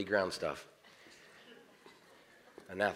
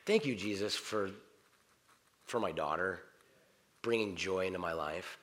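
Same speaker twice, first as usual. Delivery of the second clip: prayer of thanks; 4 semitones lower, 5 dB quieter than usual. Shown as a demonstration.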